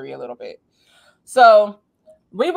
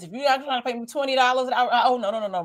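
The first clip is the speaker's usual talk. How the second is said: mock refusal; 7 semitones higher, much faster than usual.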